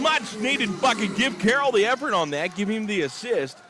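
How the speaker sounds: energized play-by-play follow-up; excited praise. Real, not acted. Praise after made three.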